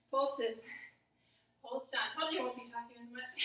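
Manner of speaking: panting through the words; breathless mid-workout; out of breath. Real, not acted. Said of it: "panting, breathing heavily".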